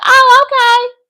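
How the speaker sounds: high, mock-agreeable acknowledgement; airy brush-off. Woman answering his promise to call later, airy high brush-off. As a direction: toss it off in a high lilt.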